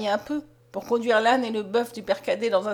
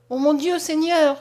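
loud, higher cry to heaven; exclamation; 4 semitones higher, 6 dB louder, slower than usual. A narrator's reading. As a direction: cry out to God in dismay. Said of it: "s'écria Mariette".

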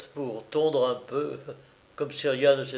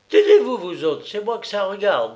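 higher, louder command to hush; bossy order; 7 semitones higher, 6 dB louder than usual. A narrator's reading. Colombine silencing the strongmen.

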